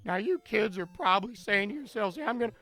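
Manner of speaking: loud, booming Matt Foley motivational speaker; Chris Farley impression. Streamer doing Chris Farley's Matt Foley for chat, booming. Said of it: "that's what we're saying is Chris Farley".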